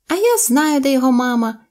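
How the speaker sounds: high, lively animal character; monkey's call. A narrator's reading. Monkey breaks in on the animals, high eager voice.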